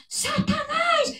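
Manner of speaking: drawn-out, high-pitched yell; mock exorcist shout. Mimicking those who think authority is noise, loud mock shout. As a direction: imitate a noisy preacher yelling at the devil. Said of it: "não é exatamente barulho".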